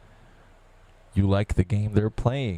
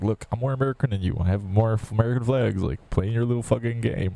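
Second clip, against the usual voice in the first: quicker and higher, snooty mock voice; mocking older lady; 4 semitones higher than usual. Mimicking the lady bragging about flags, higher and quicker. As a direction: parody her smug bragging.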